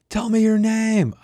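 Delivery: high, slow, loud command; demanding. Acted. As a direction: draw out each word as an order. Surveyor demanding her name.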